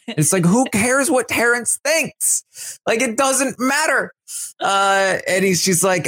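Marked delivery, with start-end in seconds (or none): 0.1-4.1 much higher, airy, giddy voice; mock giddy Taylor. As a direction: play her as thrilled with herself. Gushing about tricking Terrence.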